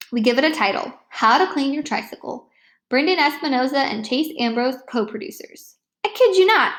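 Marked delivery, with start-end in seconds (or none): 6.1-6.7 emphatic aside. A narrator's reading.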